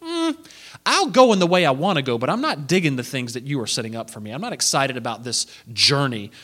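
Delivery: lightly voiced grudging Moses; a hint of Moses dragging his feet; reluctant Moses. Preacher voicing Moses grumbling to God about the mission, grudging. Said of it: "Moses is like".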